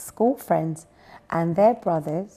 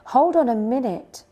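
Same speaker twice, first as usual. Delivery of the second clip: raised-pitch little owl objection; protesting; 5 semitones higher, 4 dB louder than usual. A narrator's reading. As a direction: object and call a halt. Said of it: "protested Baby Owl".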